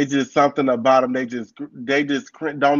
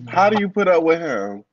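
louder repeat; 2 semitones higher, 5 dB louder, faster than usual. Real, not acted. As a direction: repeat it louder so she hears.

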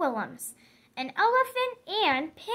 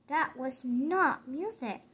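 soft, low apology; gentle honesty; 7 semitones lower, 8 dB quieter than usual. Acted. Gerald gently telling Piggy her trumpet is not music, soft and low. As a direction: let the truth down softly.

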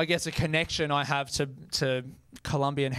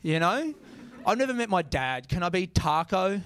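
annoyed; 3 semitones higher than usual. Retold or imitated. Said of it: "it makes me angry when I hear that".

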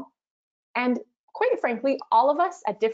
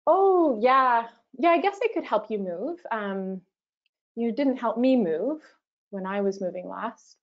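reluctant, grudging yes full of hedges and sighs; passive aggressive; 3 semitones higher than usual. Shown as a demonstration. To a friend asking for moving help, grudging passive-aggressive yes. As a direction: agree while making them feel guilty. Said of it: "So passive aggressive would look like".

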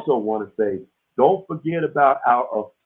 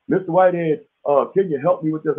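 imitating callers; 5 semitones higher, 4 dB louder than usual. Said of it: "A lot of people say".

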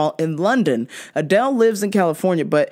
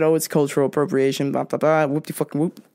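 mild mock whiny critic, quick and dismissive; 5 semitones lower, faster than usual. Host mocks social media outrage in a mildly whiny voice. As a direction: parody the outraged crowd lightly. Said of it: "everybody's upset".

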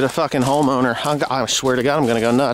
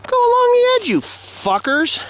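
mock yell. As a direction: shout it like they could hear you. Yelling at absent quad riders.

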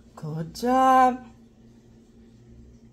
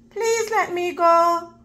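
begging; 6 semitones higher than usual. Acted. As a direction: ask gently to be let go. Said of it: "Mouse begged".

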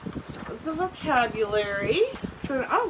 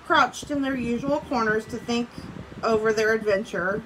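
reading a story aloud to the class; steady read-aloud for students; story narration. A narrator's reading. Teacher reading a storybook to her class, read-aloud voice.

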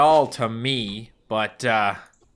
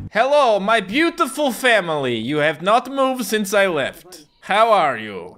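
mock cheerful dad; 7 semitones higher, 4 dB louder than usual. Character greets family.

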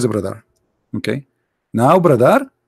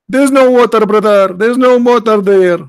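mocking; 7 semitones higher than usual. Real, not acted. Mockingly repeating opponent's claim.

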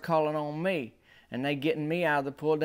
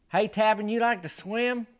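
put-on old lady voice; 8 semitones higher than usual. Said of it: "and she says".

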